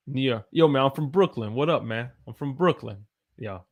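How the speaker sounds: rough mock Brooklyn accent; half-convincing New York accent; attempted New York accent. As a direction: try on a New York street greeting accent. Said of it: "in a New York accent".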